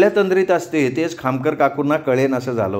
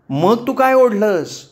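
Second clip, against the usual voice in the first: high, drawn-out accusing shout; acted yelling; 7 semitones higher, slower than usual. A narrator's reading. Roommate shouting over a fire alarm, yelling. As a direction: yell the question slowly and high. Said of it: "fire अलार्मपेक्षाही जोरात ओरडायला लागली होती".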